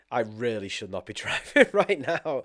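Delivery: words broken by a laugh; amused retelling with a laugh; laughing through it. Retold or imitated. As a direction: chuckle mid-line at your own folly. Retelling drowsy drive, laughing.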